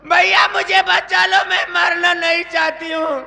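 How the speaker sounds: frantic begging cry for help; desperate pleading. Acted. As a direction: plead for your life, breathless. Sister begging brother for rescue.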